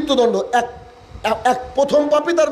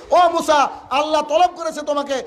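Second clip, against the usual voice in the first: high calling voice of the angel; summoning call; 5 semitones higher than usual. Acted. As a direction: call out to Musa from above.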